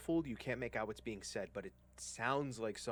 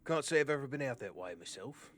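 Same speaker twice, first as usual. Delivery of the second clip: put-on rural accented guide, lifted and louder; chatty trail guide; 4 semitones higher, 6 dB louder than usual. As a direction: play an easygoing armed guide making small talk.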